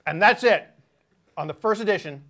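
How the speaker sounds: talking while still chewing; mouth full. Real, not acted. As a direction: outro through a mouthful. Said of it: "misinterpreted how chewy the sandwich was gonna be for my outro".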